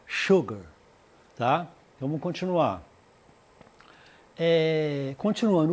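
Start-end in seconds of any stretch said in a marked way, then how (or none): 0.0-0.6 "Sugar" said "shoogar", opening on a clear sh sound; "Sugar" pronounced "shoo-gar". Shown as a demonstration. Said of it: "A pronúncia da palavra açúcar como se fosse um X".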